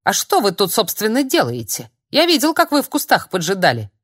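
нарочито строгий допрос, громче; изображает строгость, а сам боится; напускная суровость. Acted. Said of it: "с напускной суровостью". (с напускной суровостью допрашивает Филиппа)

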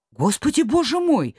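high, wondering cry; amazed exclaim. Acted. The miller, suddenly healthy, exclaims in wonder. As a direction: marvel at being well. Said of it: "удивлялся он".

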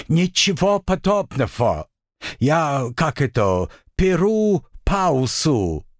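high, slow, tipsy devil; drunk rambling. Acted.

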